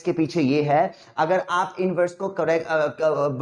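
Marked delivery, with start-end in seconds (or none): none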